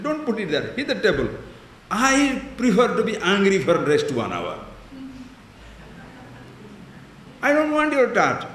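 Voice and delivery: contractor snaps back, voice rising on don't; angry refusal. Retold or imitated. Swami imitating the proud contractor, mock angry refusal. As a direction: push the tart away in mock anger. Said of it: "He said".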